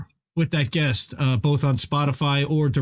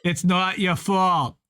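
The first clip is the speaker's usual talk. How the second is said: put-on slow Boston accent, movie quote; Boston accent, slow and earnest; 4 semitones higher, slower than usual. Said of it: "do it in the Boston accent".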